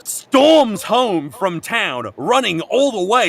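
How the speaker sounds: excited retelling. Retold or imitated. Excited retelling of dramatic scene.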